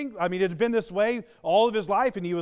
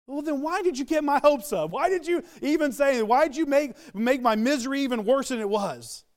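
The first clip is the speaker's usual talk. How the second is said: sigh, then higher-pitched acted protest; exasperated complaint; 5 semitones higher than usual. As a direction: play the let-down beggar, pleading indignantly. Voicing the let-down lame man's complaint.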